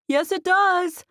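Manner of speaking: loud, high call into the phone; yelling. A narrator's reading. Friend butts into the phone call, yelling. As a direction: call out so he hears it. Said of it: "I was fine with her yelling at him".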